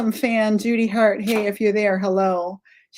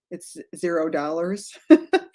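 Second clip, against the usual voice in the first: laughing; 2 semitones lower than usual. Real, not acted. Laughs while giving the price.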